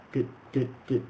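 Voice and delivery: clipped even dit sounds; mock metronome dits; evenly spaced ticks. Shown as a demonstration. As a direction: tap out even beats. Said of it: "even spacing all down".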